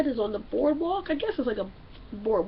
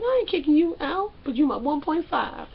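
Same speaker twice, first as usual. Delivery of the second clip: mock daughter; 3 semitones higher than usual. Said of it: "she was like".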